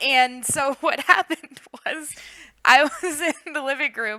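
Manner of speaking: laughing while talking. Telling a funny story to another speaker, laughing while talking. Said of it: "I'm cracking up just thinking about it".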